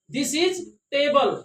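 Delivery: slow, word-by-word "this is table"; very slow dictation pace; very slow demo. Shown as a demonstration. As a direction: spell it out slowly.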